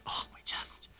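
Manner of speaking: breathy whispered moan of fake pain; faking chest pain. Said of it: "going to the E R and going".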